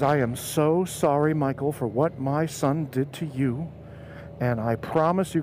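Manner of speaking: slow, earnest apology; retold sincere apology. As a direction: voice a mother apologizing solemnly. Mother's retold apology to narrator.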